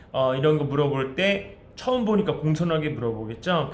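ordinary talk

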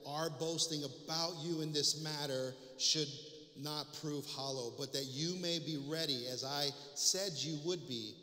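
reading the epistle aloud with firm projection; preacher reads scripture to the congregation, emphatic and measured. Acted. Preacher reading Paul's letter to his church, emphatic public reading.

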